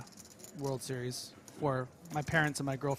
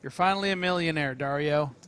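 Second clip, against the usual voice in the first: excited; 7 dB louder than usual. Real, not acted. Congratulating player on big stack.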